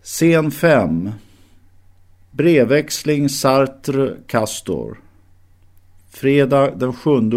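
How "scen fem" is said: usual speaking voice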